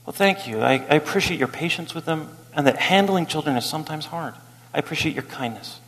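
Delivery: soft, gentle kind reply; gracious thanks. Retold or imitated. Parent thanking a critic in the grocery store, soft. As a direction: answer with quiet kindness. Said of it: "I say".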